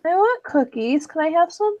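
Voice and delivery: put-on childish whine. Begging a friend for cookies.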